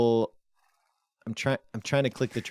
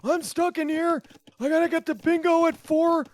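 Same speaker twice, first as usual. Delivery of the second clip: high, creaky grumpy grandpa; cranky old geezer scolding youngsters; old man voice; 4 dB louder than usual. Acted. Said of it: "I always do the old man voice".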